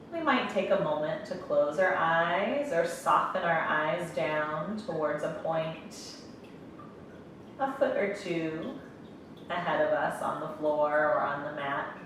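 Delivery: calm meditation guide, long pauses between phrases; guided meditation. Real, not acted. Yoga instructor guiding breath and closed eyes, calm meditation voice. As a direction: ease them gently into stillness, leaving space to breathe.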